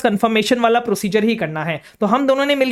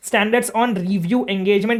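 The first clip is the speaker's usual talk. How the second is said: slow dictation; much slower than usual. Shown as a demonstration. Dictating term for notes.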